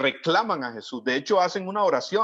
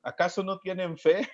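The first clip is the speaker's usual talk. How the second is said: smiling, gentle question; 3 semitones higher than usual. Retold or imitated. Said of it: "me imagino a Jesús sonriendo y diciéndoles".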